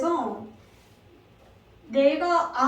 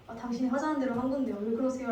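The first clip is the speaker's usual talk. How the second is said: flustered husband; 2 semitones lower, 6 dB quieter, faster than usual. Pretend. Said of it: "아브라함이 당황해서".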